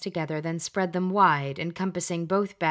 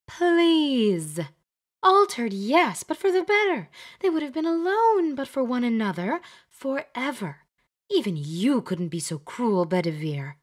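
much higher and louder, indignant witch; protesting Glenda; 6 semitones higher, 4 dB louder than usual. Acted. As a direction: wave off his reproach with passion.

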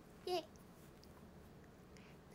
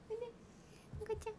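高い猫なで声; 10 semitones higher, 14 dB quieter, much faster than usual. Real, not acted. ペットを呼ぶ.

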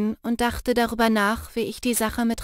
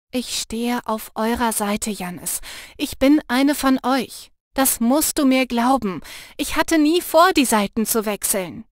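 rising, louder indignant protest; 3 dB louder than usual. Acted. Lena insisting to Jannis she never meant to switch sides, indignant. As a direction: defend yourself, offended. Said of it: "sagte ich entrüstet".

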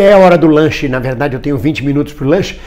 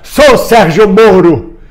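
slow, mildly raised rallying cry; imitated protest shout; 3 semitones higher, 3 dB louder, much slower than usual. Man recalling this year's slogan to viewers, mock shouting. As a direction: draw the name out like a chant. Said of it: "comecei a gritar".

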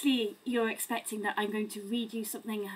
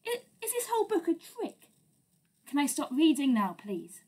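mock panic; 2 semitones higher than usual. Reader pleads with the child.

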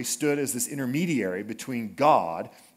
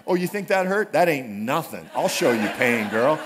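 raised, louder mock threat from a parent; mock angry threat; 3 semitones higher, 5 dB louder than usual. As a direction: throw down a hammed-up tough-parent threat. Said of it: "all these flashbacks coming back".

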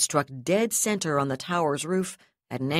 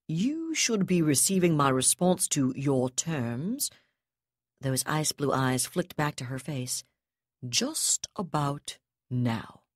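slow cold; slower than usual. Acted. Terekhov's cold slow reveal.

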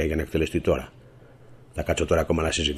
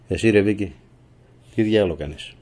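louder, higher accusing call-out; angry confrontation; 4 semitones higher, 5 dB louder than usual. Real, not acted. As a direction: call her out sharply, voice raised. Angrily confronts Vicky. (οργισμένη επίπληξη προς τη Βίκη)

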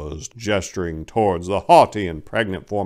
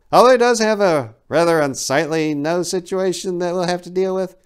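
much higher, eager little elf; 4 semitones higher than usual. Acted. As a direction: play the small helper keen to please. Voices the elf Jacob.

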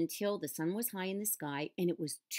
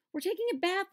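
high, loud yell; 13 semitones higher, 5 dB louder, faster than usual. A narrator's reading. Mouse yells back at Cecil from the pan, loud. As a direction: yell it over the splashing. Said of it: "Mouse yelled".

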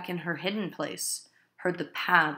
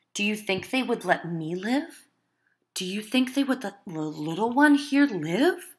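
higher, louder rising questions; goading plea; 3 semitones higher, 5 dB louder than usual. Acted. Wife goading her husband for the child's sake, urgent plea. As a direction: goad him into action.

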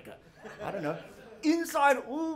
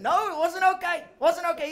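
mock outburst; 7 semitones higher, 4 dB louder than usual. Protesting loudly.

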